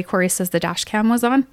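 retold in an even, factual tone; matter-of-fact. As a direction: state it as simple fact. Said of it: "I said, matter-of-factly".

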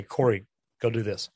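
blunt order. Shown as a demonstration. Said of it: "I just say".

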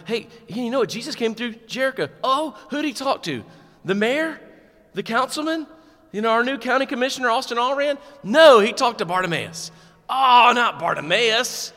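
high, loud mocking gossip; gossiping townsfolk. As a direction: play snobby townsfolk chattering.

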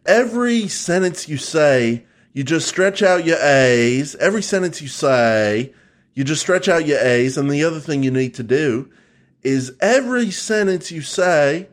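Australian accent demo. Shown as a demonstration. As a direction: end each phrase like half a question. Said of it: "the way to do an Australian accent".

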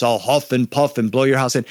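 lightly voiced big bad wolf; a hint of a big storybook wolf; understated big wolf voice. Shown as a demonstration. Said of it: "my wolf has my really big voice".

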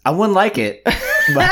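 laughs through the words; a real laugh breaking in. Real, not acted. Admits reluctance laughing.

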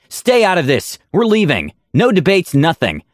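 high-pitched, heated command; indignant, clipped-off refusal; insistent order. A narrator's reading. Aura orders crowd back.

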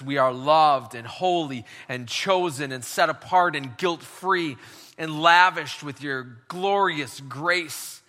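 earnest pastoral prayer, slowing on key phrases; closing prayer. Acted. Pastor prays over the congregation to close the sermon, earnest and unhurried. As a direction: pray it over the room, unhurried.

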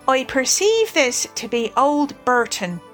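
mildly approving, measured remark. Acted. Rat examining the beer label, mildly approving. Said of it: "he remarked approvingly".

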